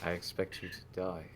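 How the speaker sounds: low, hushed movie-villain menace; quiet mock villain. Joking villain to a seated visitor, hushed menace. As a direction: play a villain very softly, menace underplayed. Playing on the soft-spoken developer bit.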